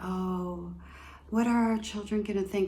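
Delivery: soft, flat, butter-wouldn't-melt innocent voice. Describing some estranged parents, imitating them in a mock-innocent flatline voice. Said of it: "butter wouldn't melt in my mouth kind of voice".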